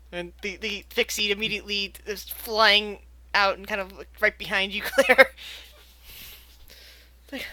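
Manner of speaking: ordinary talk, nothing marked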